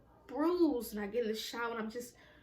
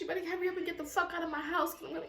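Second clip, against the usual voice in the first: mock threatening mom; 5 semitones higher than usual. Mother threatening her.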